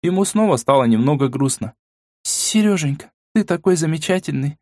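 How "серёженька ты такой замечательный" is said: нежно, ласково воркуя; проворковать, прижимаясь к жениху. Acted. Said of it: "проворковала Или". (нежное воркование)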